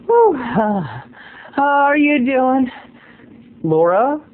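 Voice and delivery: high, slow panting imitation; mock out of breath. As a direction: puff through it as if winded. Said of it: "You just sound so out of breath".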